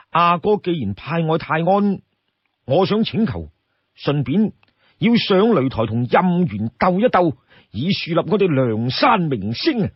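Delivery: lightly voiced eager fighter asking permission; Yan Qing. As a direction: ask brightly to be let fight. Voices Yan Qing's eager request.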